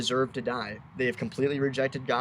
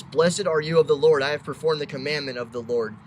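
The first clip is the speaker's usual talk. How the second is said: louder, mock-pious blessing; fake religious talk; 5 dB louder than usual. Saul greets Samuel with a put-on pious show. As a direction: ham up a showy pious greeting. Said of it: "puts on this fake religious act".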